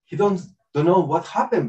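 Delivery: usual speaking voice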